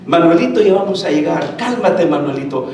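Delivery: low-pitched patient reassurance; affectionate calming. Retold or imitated. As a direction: coax gently, as if to a child nearly home. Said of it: "Cómo con cariño le viene diciendo".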